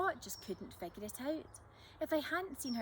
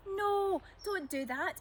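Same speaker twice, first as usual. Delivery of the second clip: high, loud alarmed yell; 9 semitones higher, 4 dB louder, slower than usual. Acted. Emily yelling at Jack on the beach, high and loud. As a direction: shout to stop him. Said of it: "Emily yelled".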